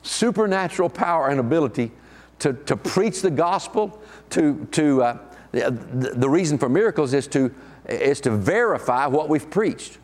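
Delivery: talking around a wad of gum; chewing gum. Real, not acted. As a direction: speak while chewing gum. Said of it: "I've got gum in my mouth".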